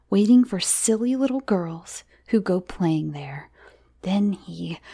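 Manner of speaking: suspenseful, halting scare tale; spooky storytelling. Acted. Johnny frightens Miranda about the girl eater, ominous. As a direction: build suspense with ominous pauses. Man tells child scary tale.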